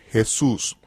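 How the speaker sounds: "Jesús" dicho en un susurro; whispered name. Acted. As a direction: breathe "Jesús" as if half to yourself. Name said as an aside.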